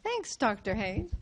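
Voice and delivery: beam at Doctor Haynes as you thank him; smiling thanks. Shown as a demonstration. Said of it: "you're saying".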